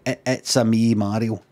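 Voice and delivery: low, subdued take on the catchphrase; Mario. Acted. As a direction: say the catchphrase low and held back. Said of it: "I'm not allowed to go".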